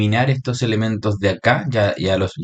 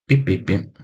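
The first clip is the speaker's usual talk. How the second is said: little vocalised pips; a quick string of pips while clicking; pip-pip-pip filler; slower than usual. Real, not acted. Teacher clicking through the graph setup, light pip-pip noises.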